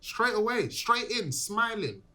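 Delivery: excited. Real, not acted. Coaching his friend before the date.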